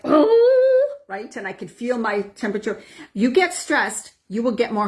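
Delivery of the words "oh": sudden high yelped oh, as if triggered; a jolt of being triggered; short high gasp of upset; startled oh. Retold or imitated. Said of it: "I'm like".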